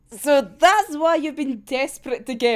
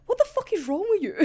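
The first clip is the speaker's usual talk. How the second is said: laughing quote; 7 semitones higher, faster than usual. Retold or imitated. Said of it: "Atsushi just be like".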